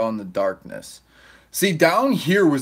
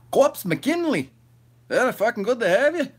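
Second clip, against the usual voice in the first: high sing-song; 9 semitones higher than usual. Pretend. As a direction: stretch the name out high like a hype man. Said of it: "See how I did that shit".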